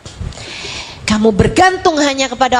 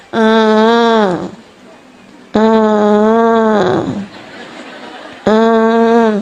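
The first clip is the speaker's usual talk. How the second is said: mock whiny child hums; 4 semitones lower, much slower than usual. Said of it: "ada anak nangis gini nih".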